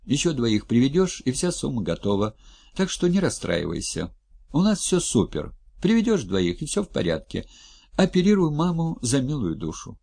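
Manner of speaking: high, upbeat salesman coaxing; cajoling Skotnikov. Acted. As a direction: talk her round with false cheer.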